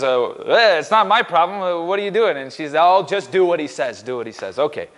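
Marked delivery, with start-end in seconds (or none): 0.0-2.4 lightly put-on New York accent, higher pitch; half-hearted New York brush-off; New York Jewish impression. Pastor voices Jesus answering his mother, lightly faked New York accent. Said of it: "that also seems like classic New York Jew". 2.7-4.6 a hint of New York resignation; New York Jewish impression. Pastor voices Jesus' mother to servants, lightly faked New York accent. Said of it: "that also seems like classic New York Jew".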